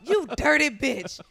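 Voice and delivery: put-on high, slow screaming old lady; screaming old woman. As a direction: scream insults like a frail grandma. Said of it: "she's screaming the whole time".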